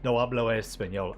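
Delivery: "No hablo español" in a light Spanish accent; Spanish phrase, lightly accented. Shown as a demonstration. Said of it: "I know that one".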